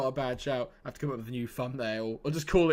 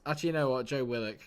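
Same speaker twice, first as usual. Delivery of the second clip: ordinary talk, nothing marked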